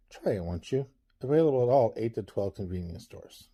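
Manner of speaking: calm, smooth commercial voice; soothing ad read. Acted. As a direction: sell sleep like a late-night ad. Reads a mock sleep ad.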